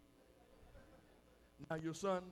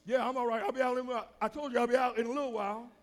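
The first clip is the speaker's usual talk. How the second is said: loud, raised, hurried reply; calling back; 4 semitones higher, 8 dB louder, faster than usual. Acted. Husband in the shower answering his wife, loud calling back. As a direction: shout back through the bathroom door.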